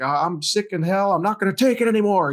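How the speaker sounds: high, shouted movie quote, half-played; hollering out the window like in the movie; mock movie yell. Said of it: "you're screaming out the window".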